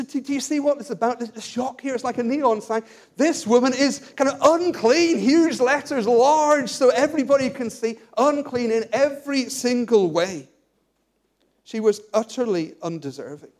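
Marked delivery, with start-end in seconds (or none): 3.2-10.5 emphatic build. Acted. Preacher drives home "unclean" image.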